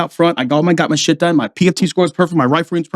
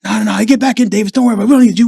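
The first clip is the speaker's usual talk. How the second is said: higher-pitched imitated brush-off; dismissive superior; 5 semitones higher, much faster than usual. Slimebags keeping Davis down, dismissive imitation. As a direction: wave the keen Marine away, voice raised in pitch. Leaders waving him off, retold.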